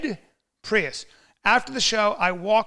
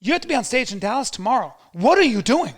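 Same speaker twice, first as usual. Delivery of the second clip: raised, loud, exasperated telling-off; imitating scolding wife; 5 semitones higher, 5 dB louder than usual. Wife scolding husband over a fight, high and loud. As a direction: scold him in a higher, louder voice. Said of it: "my wife at the time goes".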